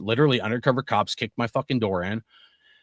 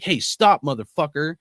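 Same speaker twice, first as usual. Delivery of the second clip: put-on dad yelling at the kid; 4 semitones higher than usual. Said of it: "my dad turns and he says".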